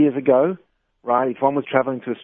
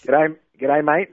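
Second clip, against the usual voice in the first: broad Australian g'day, a touch higher; Aussie greeting; 4 semitones higher, slower than usual. Pretend. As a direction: greet her like a hammed-up Aussie bloke. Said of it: "You polished up on your accent?".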